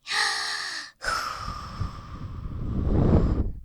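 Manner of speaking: long, low breathy blast of dragon fire; fire breath exhale. Acted. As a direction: breathe out a long hiss of flame. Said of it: "Fire breath comes in handy".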